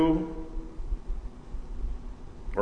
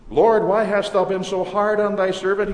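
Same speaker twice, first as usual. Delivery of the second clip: raised, louder pleading cry to the Lord; self-pitying plea; 5 semitones higher, 4 dB louder than usual. Retold or imitated. Moses cries to the Lord in self-pity, raised and pleading. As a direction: plead loudly, lifting the voice in complaint. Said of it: "He becomes self-pitying".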